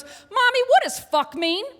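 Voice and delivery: high, loud, innocent blurt; imitated daughter's booming question; very loud child. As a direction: blurt it out for the whole room to hear. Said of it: "in a volume you could hear three towns over".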